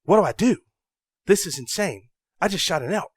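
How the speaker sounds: high, loud, frantic disbelief; panicked excitement. Retold or imitated. Hunter just shot his first elk, panicking. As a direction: blurt it out like you can't believe it. Panicked quote right after shooting.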